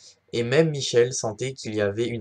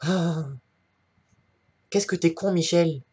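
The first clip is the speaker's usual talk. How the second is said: exasperated; 5 semitones higher than usual. Acted. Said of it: "Et en chœur".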